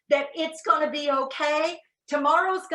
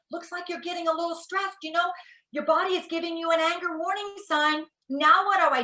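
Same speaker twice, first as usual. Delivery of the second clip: polite; 5 semitones higher than usual. Retold or imitated. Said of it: "politely say".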